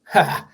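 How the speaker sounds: short gloating villain cackle; evil villain laugh. Acted. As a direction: mustache twirling villain laugh. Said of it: "judging by my evil villain laugh".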